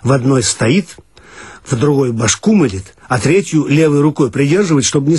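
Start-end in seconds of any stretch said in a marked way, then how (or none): none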